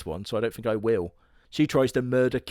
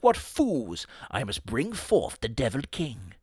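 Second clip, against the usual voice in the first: hammy villain. Acted. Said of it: "is like".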